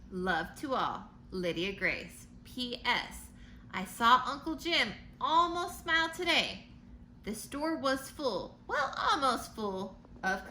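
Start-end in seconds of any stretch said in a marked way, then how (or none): 0.1-6.6 storybook letter read aloud; reading to children. A narrator's reading. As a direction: read it like a bedtime picture book.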